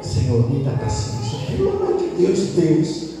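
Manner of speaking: acted prayer rising in pitch; pleading for patience. Exasperated father asking God for patience, pleading. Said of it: "Olha eu pedindo a Deus".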